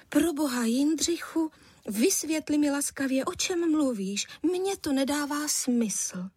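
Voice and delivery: a wife begging her husband to explain; puzzled wife. A narrator's reading.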